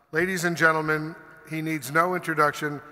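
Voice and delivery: big booming intro, pitch climbing on the name; announcer shout. Real, not acted. Host bringing the guest on, loud announcer call. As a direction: call the star out to the stage.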